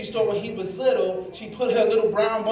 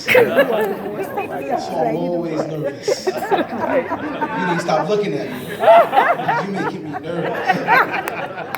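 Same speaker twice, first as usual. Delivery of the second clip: mock nervous; much slower than usual. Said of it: "white people make me nervous".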